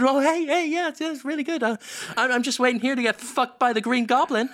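casual high voice, a bit too cheerful. Retold or imitated. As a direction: chirp it like nothing is odd. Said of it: "Jonathan sort of just turns and says".

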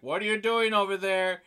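tag. Retold or imitated. Voicing Carl startled by thunder.

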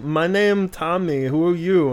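very slow, halting broken-English Wiseau; Wiseau impression. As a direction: drag each word like Wiseau. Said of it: "And he's like".

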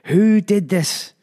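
matron's high, drawn-out shriek; high-pitched furious shriek. A narrator's reading. Matron down the corridor at the boys, high-pitched furious shriek. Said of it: "high-pitched, furious voice of the matron".

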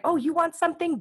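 playful universe voice. Retold or imitated. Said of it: "Universe is like".

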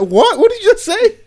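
high, loud disbelief; what did you just say, stunned; shocked. Retold or imitated. Shocked reaction retold.

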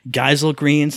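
"Geisel greens" as GUY-zul greens; another odd pronunciation. Shown as a demonstration. Gamer quoting another character, "Geisel" as GUY-zul. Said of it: "somebody else says it".

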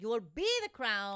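loud hammed-up paternal command; put-on forceful dad voice; mock-dramatic father. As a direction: play the commanding king overruling his son. Acting the father's stern reply.

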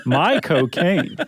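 Michael Caine accent. Shown as a demonstration. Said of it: "I've got it two ways now".

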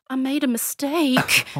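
put-on slow, high little-kid admission; drawn-out, childlike confession; scared child confessing. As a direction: imitate a toddler owning up slowly. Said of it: "like, really scared".

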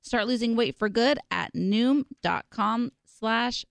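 slow, upbeat sponsor ad read. Acted. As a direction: sell it like a radio spot.

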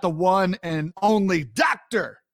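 "Doctor" punched as the big reveal; emphasis on Doctor. Real, not acted. Host hyping the guest's title, emphasis on "Doctor". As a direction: lean hard on the word "Doctor". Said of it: "I put the emphasis on doctor".

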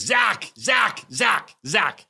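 high, loud, excited retold outburst; loud Polish man. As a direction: boom it out like a loud, over-caffeinated Pole. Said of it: "He's loud".

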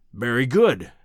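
indulgent. A narrator's reading.

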